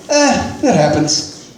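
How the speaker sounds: lightly voiced easygoing cop, shrugging it off; a hint of a reassuring uncle; favorite-uncle cop. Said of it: "talking to me like he's my favorite uncle".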